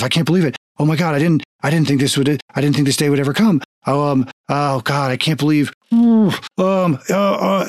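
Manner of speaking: lightly voiced awestruck onlookers; awestruck townsfolk. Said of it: "all saying something along the lines of".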